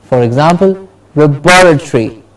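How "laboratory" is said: "laboratory" as luh-BOR-uh-tree; stress on BOR. Shown as a demonstration. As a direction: model "laboratory", beat on "bor". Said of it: "bor gets the stress".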